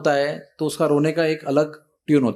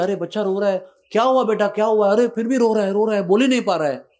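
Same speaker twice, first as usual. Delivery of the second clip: worried mother; 5 semitones higher than usual. Retold or imitated. Worried mother over sobbing child.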